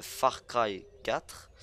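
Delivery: "Far Cry quatre" said slowly with a French accent. Shown as a demonstration. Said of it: "je vais le dire avec mon accent français". (accent français appuyé sur « Far Cry quatre »)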